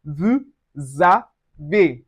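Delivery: "vous avez" as voo-za-vay; S of "vous avez" linked as Z; linked pronunciation. Shown as a demonstration. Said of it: "it gives us vous avez".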